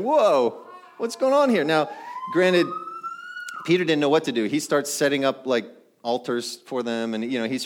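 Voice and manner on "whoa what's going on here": high, astonished exclamation; mock-astonished disciples; amazed whoa. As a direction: gasp it out like you can't believe your eyes.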